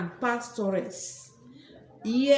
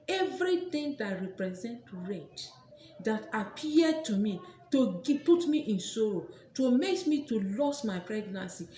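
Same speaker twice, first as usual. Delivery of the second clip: prayer. Acted. Recites a prayer formula.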